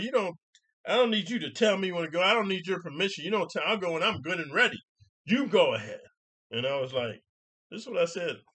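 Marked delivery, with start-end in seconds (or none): 0.0-6.0 high, loud indignant rant; imitating her yell. Lady shouting from car window at a pedestrian, imitated yell. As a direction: snap back like the offended driver. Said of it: "this is what she yells to me".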